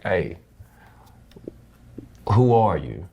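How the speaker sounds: gentle, caring ask; a father's caring question, unhurried; concerned, loving question. Retold or imitated. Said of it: "loving, concerning, like".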